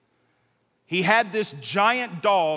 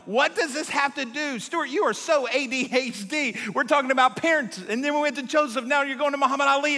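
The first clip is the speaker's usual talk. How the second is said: mock audience; 5 semitones higher than usual. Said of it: "most of you are going".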